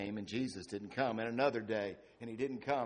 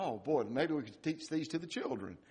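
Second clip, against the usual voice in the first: mock sweet reading; 4 dB quieter than usual. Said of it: "read these words sweetly".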